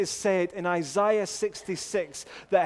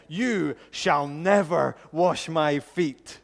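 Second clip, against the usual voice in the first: rebuke; 7 dB louder, slower than usual. Retold or imitated. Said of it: "dive in with a rebuke".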